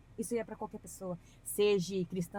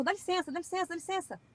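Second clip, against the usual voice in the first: polite to dog; 10 semitones higher than usual. Retold or imitated. Politely telling the dog to move.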